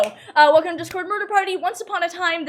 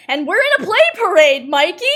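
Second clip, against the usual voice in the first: louder, punchy catchphrase; catchphrase shout; 3 semitones higher, 7 dB louder than usual. Acted. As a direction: call it out to the cast.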